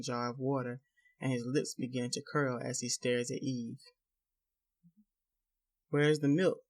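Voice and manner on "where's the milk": demanding. Acted. Husband demands milk at breakfast.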